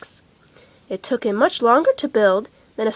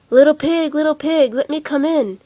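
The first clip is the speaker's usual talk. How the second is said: loud, menacing wolf call; big bad wolf; 4 semitones higher, 4 dB louder than usual. The wolf demands entry, loud menacing call. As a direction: call through the door like a wolf.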